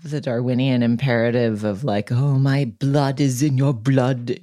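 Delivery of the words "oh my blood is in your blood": mock epic hero. Mocking the film's dialogue.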